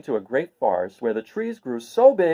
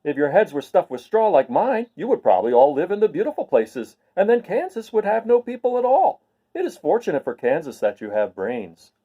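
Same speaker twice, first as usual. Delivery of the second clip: a bright straw man who cannot understand; Scarecrow voice; 4 semitones higher than usual. Acted. Scarecrow continues.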